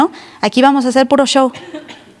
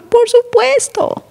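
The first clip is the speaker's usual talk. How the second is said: emphatic yes; 12 semitones higher, slower than usual. Acted. Emphatic answer to own question.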